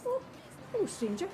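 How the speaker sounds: a bright, breezy hello, a touch overdone; too cheerful. Shown as a demonstration. Rehearsing her greeting alone, overly cheerful try. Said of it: "Too cheerful".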